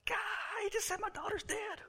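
high, soft anguished cry; high, hushed grief at the news; anguished disbelief. Retold or imitated. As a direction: plead in high hushed despair. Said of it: "and you're like".

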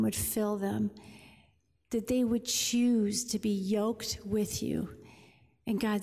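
calm, earnest prayer voice; closing prayer. Acted. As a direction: pray over the room gently. Pastor leads a closing prayer.

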